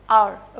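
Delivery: आवर said clearly, like hour; model pronunciation. Shown as a demonstration. Teacher shows students how o-u-r sounds. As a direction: spell out आवर for the class. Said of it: "ओ यू आर को आप आवर बोलते हैं".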